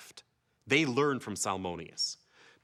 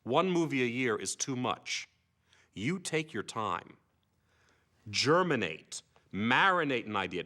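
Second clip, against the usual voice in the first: slow, deliberate mock mentor; sage adviser; slower than usual. Salmonius advising young Kubrick, slow mock-sage counsel. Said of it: "And Salmonius said".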